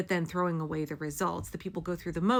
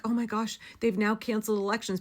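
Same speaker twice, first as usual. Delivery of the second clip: mock panic; 4 semitones higher, faster than usual. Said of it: "Don't be like".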